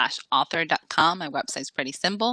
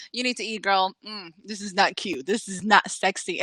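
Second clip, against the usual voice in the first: a hint of a sassy granny scolding; understated disapproving old lady; lightly voiced old lady; 2 semitones higher than usual. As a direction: tut at her appearance, mildly. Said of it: "she sounds like".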